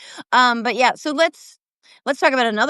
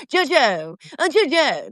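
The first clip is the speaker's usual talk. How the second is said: Piers Morgan impression; 3 semitones higher than usual. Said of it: "That's how Piers says my name".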